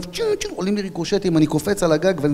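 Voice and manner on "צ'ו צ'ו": high whizzing bullet noises; imitated bullet sound. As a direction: mimic ricochets zipping past. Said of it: "כל הכדורים פוגעים מתחתיו".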